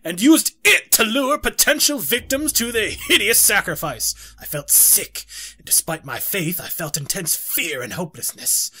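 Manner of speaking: theatrical diary narration; dramatic reading. Acted. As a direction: read it like a gothic tale.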